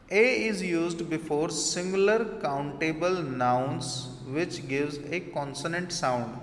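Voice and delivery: slow, deliberate reading of an English rule. Shown as a demonstration. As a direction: spell out the rule word by word for the class. Reads rule aloud slowly. (धीमे-धीमे नियम पढ़ना)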